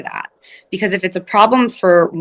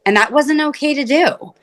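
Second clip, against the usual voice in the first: sincere ownership; 2 semitones higher than usual. Shown as a demonstration. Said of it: "not getting defensive".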